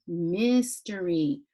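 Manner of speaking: mystery slowly, each syllable stretched; drawn-out sounding out. Shown as a demonstration. Teacher introducing a word to pupils, mystery slowly drawn out. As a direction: draw out every syllable of mystery. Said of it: "So that's the word mystery".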